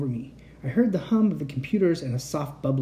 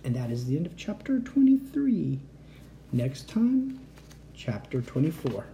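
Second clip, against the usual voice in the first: soft unvoiced whisper; whispered outro; 4 dB quieter than usual. Real, not acted. The reader closes the chapter to listeners in a whisper. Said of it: "closing the reading".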